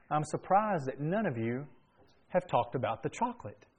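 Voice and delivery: softly voiced, gentle retold remark. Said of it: "very gently saying".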